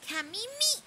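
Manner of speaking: high, drawn-out calling of Kamimi with a falling end. Pretend. Calling out a name repeatedly.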